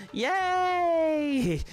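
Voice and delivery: high, loud squeal of joy; excited cheer. Real, not acted. Streamer celebrating with party members, high loud cheer. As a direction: burst out with a delighted yay.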